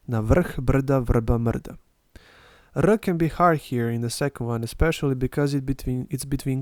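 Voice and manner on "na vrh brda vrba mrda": slow "Na vrh brda vrba mrda", each R its own syllable; teacher repeating the tongue twister; vowel-like Serbian R. Shown as a demonstration. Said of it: "it acts as a vocal".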